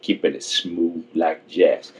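slow, smooth radio drawl; smooth jazz voice. Acted. Host playing a smooth DJ on the podcast, slow and silky. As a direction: lay it on slow and smooth like a late-night DJ.

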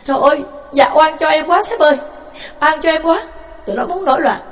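put-on old jailer flatly denying to the warden; whining denial. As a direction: protest innocence, groveling. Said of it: "chối bai bãi".

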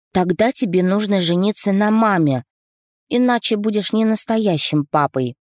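put-on high, eager child voice; little girl voice. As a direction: ask like a curious little girl. Narrator voices little daughter.

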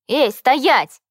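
loud playful cry to stop; shout. A narrator's reading. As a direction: yell for her to wait. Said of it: "крикнул Витя".

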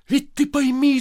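husband yelling at wife; shouting. Acted. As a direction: cry out to make her understand. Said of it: "закричал Коля".

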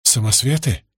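mildly drowsy question; growing sleepy. A narrator's reading. Каза questions the woman as the drug works, drowsily. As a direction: ask as if starting to drift off. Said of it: "делаясь всё более сонной".

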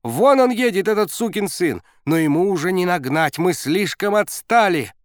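loud, high excited yelling; barking gym coach. A narrator's reading. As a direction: yell it over engine noise. Coach yelling during race.

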